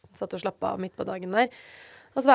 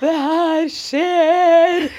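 slow, louder, tearful cry of joy; retold sobbing; 7 semitones higher, 9 dB louder, much slower than usual. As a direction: stretch it out like ugly crying with happiness. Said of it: "over senga og grein". (gråtkvalt, langsomt gledesrop)

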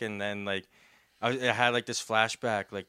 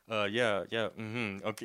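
fake agreeing; 5 semitones lower, 6 dB quieter than usual. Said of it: "You're just kind of agreeing with someone".

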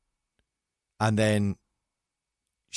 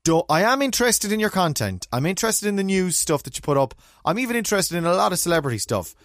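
fed-up demand; 5 semitones higher than usual. Pretend. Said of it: "can they just say".

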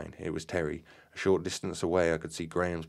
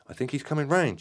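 hopeful; 9 semitones higher, 4 dB louder than usual. A narrator's reading. Relieved voice at the sofa.

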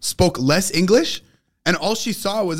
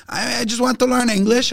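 imitating Gleb; 7 semitones higher than usual. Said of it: "He's like".

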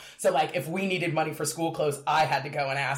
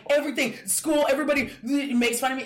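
high, whiny wail; mock tearful kid voice, much higher; retold sobbing complaint; 7 semitones higher than usual. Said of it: "I'm like".

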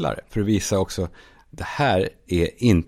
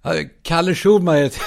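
high, half-laughing call; raised voice, amused; 7 semitones higher than usual. Acted. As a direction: call out your name through a laugh. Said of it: "så ropar jag".

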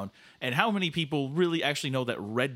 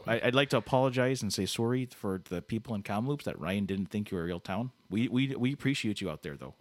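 lightly voiced apologetic Canadian host; earnest mock apology, folksy and halting; Canada Dave, polite; 3 semitones lower than usual.

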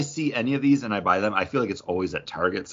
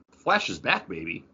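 hype announcement; 4 semitones lower, 4 dB quieter than usual. Real, not acted. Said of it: "I'm gonna be the first person to say it".

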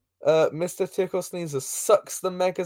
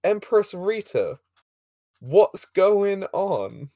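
very slow, higher mock hail; drawn-out greeting; 4 semitones higher, much slower than usual. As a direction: stretch each word out, pitched up.

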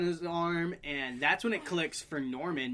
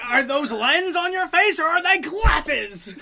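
mock taunt; 10 semitones higher, 10 dB louder, slower than usual. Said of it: "He's like".

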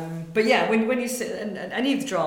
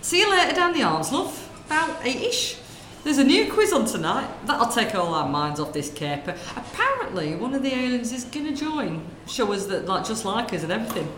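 lightly voiced gossiping northern woman, chatty; northern shop lady; 4 semitones higher than usual. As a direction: natter away like a corner-shop lady. Sketch, shopkeeper gossip.

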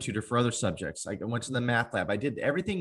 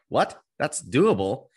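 surprised disbelief; 5 dB louder, slower than usual. Retold or imitated. Stunned reply to coach.

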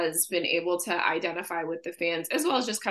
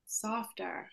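softer with dropped r, Boston style; Boston accent; 3 semitones higher, 12 dB quieter than usual. Shown as a demonstration. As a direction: say softer as sofftah, no r. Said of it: "Say that word in your Boston accent".

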